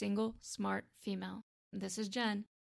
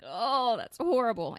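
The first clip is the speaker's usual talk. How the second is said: retold reaction; 2 semitones higher, 6 dB louder than usual. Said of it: "I'm like".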